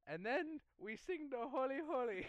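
preacher voice. Retold or imitated. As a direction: announce it like a preacher. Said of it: "the preacher says".

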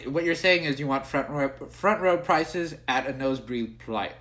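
talking while eating; mouth full. Real, not acted. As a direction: speak through a mouthful of food. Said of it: "I'm eating".

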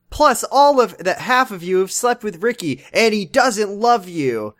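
high, heated retold outburst; imitated going off. Voicing Amy lashing out at the girls, going off. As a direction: pile on one grievance after another. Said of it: "going off on all this stuff".

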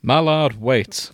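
calling after someone. Acted. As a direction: call after a departing friend, mildly urgent. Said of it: "Merlin called after him".

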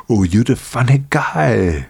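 put-on slow Austrian-accented Arnold line; amused slow Austrian accent; Arnold impression. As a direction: drawl it out like Schwarzenegger. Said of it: "I can talk exactly like him".

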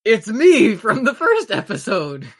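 big, slow, booming hero voice. Acted. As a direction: boom it out like a proud strongman. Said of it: "you hear a booming voice".

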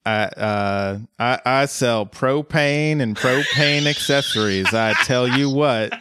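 a reluctant go at a cartoon Texan accent; lightly put-on Texas propane-salesman drawl; King of the Hill Texan. Coloradan asked for a Texas accent, reluctant cartoon Texan. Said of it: "we both go into King of the Hill".

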